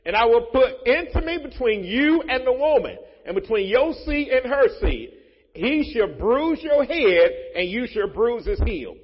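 loud, high, slow scripture reading; preached scripture. Acted. Pastor reading Genesis aloud to the congregation, loud and slow. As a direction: proclaim every word, drawing the phrases out.

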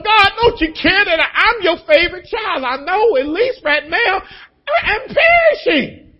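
high crying shout, slowing at the end; desperate plea. Retold or imitated. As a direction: beg God as his favorite child. Whining prayer to God.

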